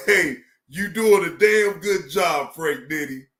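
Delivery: a real shout of praise to a friend; hyped shout. Real, not acted. Hyping up his friend Frank Nitty.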